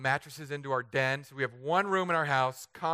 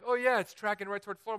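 quick, higher mock forecaster voice; 6 semitones higher, faster than usual. Mimicking weather people to the congregation, quick and higher. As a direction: rattle it off like a know-it-all. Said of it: "and they're like".

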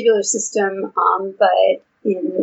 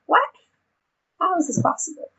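higher, incredulous inner question; surprised disbelief; 9 semitones higher than usual. Retold or imitated. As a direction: ask it as if you can't believe it. Inner thought of disbelief retold.

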